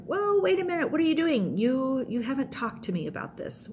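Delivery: high-pitched, stretched "whoa, hold on" objection; comic divine disbelief; incredulous God. Acted. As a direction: call someone up short, easing down toward normal pitch. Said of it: "God is like".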